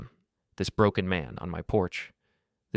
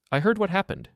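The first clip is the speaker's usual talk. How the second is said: woman's voice; 12 semitones higher, 4 dB louder than usual. Acted. Helen's voice on phone.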